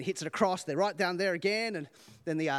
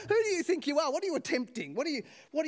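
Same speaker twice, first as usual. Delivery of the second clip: laughing; 9 semitones higher, faster than usual. Real, not acted. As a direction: still laughing at the joke. Laughing after the joke.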